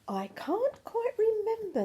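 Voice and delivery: breathy whisper of the Gruffalo; whispered hesitant recollection; whispered line. Acted. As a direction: hush it, as if unsure. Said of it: "the Gruffalo said".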